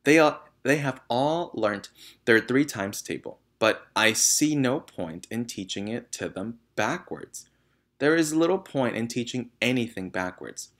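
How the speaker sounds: loud, firm, defiant teacher; firm defiance. Acted. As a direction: stand up to her firmly. Teacher firmly defies headmistress.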